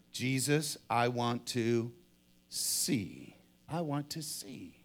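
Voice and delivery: low, soft, slow, with pauses; hushed plea. Acted. Blind man answers Jesus, hushed plea. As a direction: let the wish come out low and halting. Bartimaeus voices his deepest wish.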